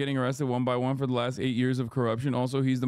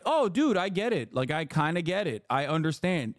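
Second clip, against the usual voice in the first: mock sympathy; 3 semitones higher than usual. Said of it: "I'm like".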